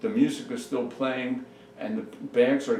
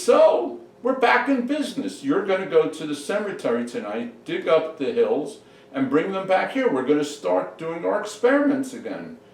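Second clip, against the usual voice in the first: loud, high-pitched mad-scientist enthusiasm; excited scheming; 6 semitones higher, 6 dB louder than usual. Acted. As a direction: launch the plan at high, loud energy. Doctor excitedly announces his plan.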